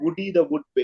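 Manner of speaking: ordinary talk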